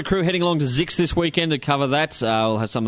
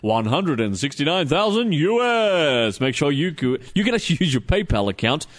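lightly hammed-up TV salesman pitch; salesman impersonation. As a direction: sell it like a cheesy TV ad. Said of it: "I'm gonna do my best salesman impersonation".

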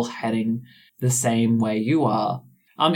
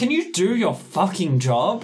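exasperated, higher voice; annoyed snap; 5 semitones higher than usual. Acted. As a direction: snap at them impatiently. Death snaps at character.

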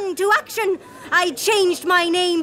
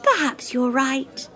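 ordinary delivery

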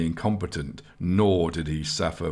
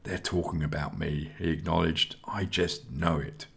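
softer, resigned and glum; lonely youth resigned to the gossip, quieter; 5 dB quieter than usual. Acted. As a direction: say it quietly, giving up. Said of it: "He sighed resignedly to himself".

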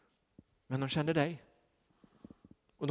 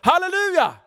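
loud, high shout of praise; jubilant hallelujah; 10 dB louder than usual. Real, not acted. Preacher shouting praise to the congregation. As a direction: cry out hallelujah.

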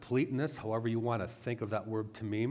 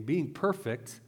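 BEING PERFECT lifted higher, as if quoted; air quotes; 4 semitones higher, 3 dB louder, slower than usual. Shown as a demonstration. Preacher repeating the term for listeners, lightly air-quoted. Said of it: "I'm using air quotes for those listening".

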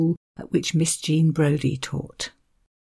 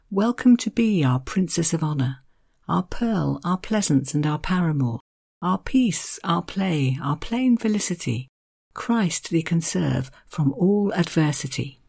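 unhurried poetry reading; poem recital. Acted. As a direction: savour each alliterative word. Reads Dunbar's wedding poem.

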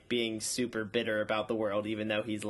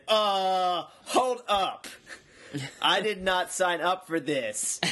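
alarmed balk; 5 semitones higher, slower than usual. Retold or imitated. Alarmed reaction in retold scene.

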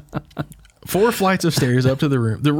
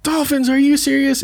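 put-on thrilled kid voice, much higher; imitating her excitement; 13 semitones higher than usual. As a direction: gush over the dolphins again. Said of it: "And she was".

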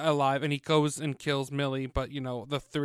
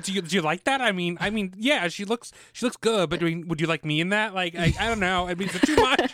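higher, halting, lightly played fishing for approval; acted insecure girl; 3 semitones higher than usual. Girl asking if he likes her look, mock insecure. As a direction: stammer into it, pitch climbing toward the last question.

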